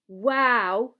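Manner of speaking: loud, wide-eyed wow; awed delight. A narrator's reading. Boy hears it was a giant squid, thrilled awe. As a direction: say it thrilled and amazed. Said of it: "as though nobody in their wildest dreams".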